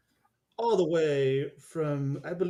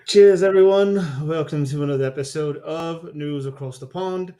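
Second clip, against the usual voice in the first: put-on British accent; 3 dB louder than usual. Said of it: "You know what's so funny about that accent".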